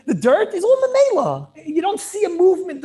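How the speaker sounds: amused laughing explanation. Real, not acted. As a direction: laugh as you say it.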